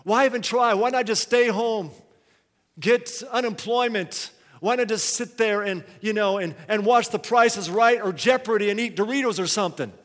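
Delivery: tempted voice ranting about why even try; voice of discouragement. Retold or imitated. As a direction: whine every excuse with growing exasperation. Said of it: "you're just tempted to say".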